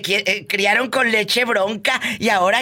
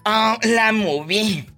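mocking; 3 semitones higher, much slower than usual. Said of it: "y ahora dicen".

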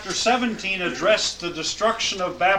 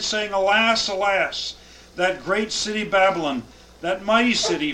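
raised, measured Bible reading; solemn scripture reading to a class; 2 semitones higher than usual. Acted. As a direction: read the verses out with weight. Reads scripture aloud.

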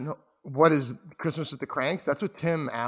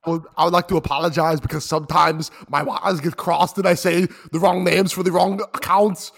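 speeding up; 4 dB louder than usual. Pretend. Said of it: "talking faster and faster".

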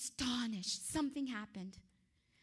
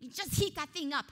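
shouting orders, much higher and louder; furious king yelling; 6 semitones higher, 12 dB louder than usual. Acted. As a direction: roar the command to stoke the furnace. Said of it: "he responded by saying".

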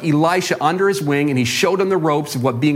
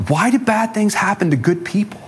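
higher, pleading why; anguished question; 4 semitones higher than usual. Acted. Widow asking why bad things happen, higher pleading tone. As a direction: cry out to God in frustration. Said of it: "what she's really asking is".

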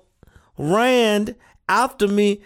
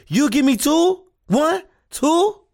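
put-on delighted child; 5 semitones higher than usual. Child delighted by two cookies.

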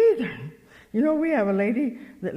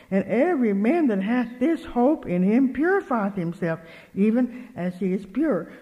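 scripture reading; 4 dB louder than usual. Real, not acted. Preacher reading First John aloud, forceful scripture reading. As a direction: declaim each phrase firmly and deliberately.

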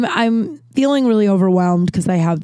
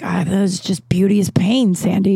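shrugging off pain. Retold or imitated. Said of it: "just being like".

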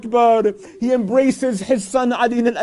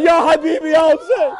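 high, loud lament; calling out; 4 semitones higher, 4 dB louder, faster than usual. Acted. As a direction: call out in grief. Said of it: "calling out".

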